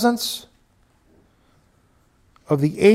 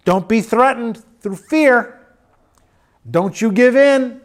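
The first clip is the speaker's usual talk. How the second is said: raised, pressing plea to the flock; a preacher's firm warning, a bit louder; urgent exhortation; 3 semitones higher, 4 dB louder than usual. Real, not acted. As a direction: drive each "don't" home with urgency.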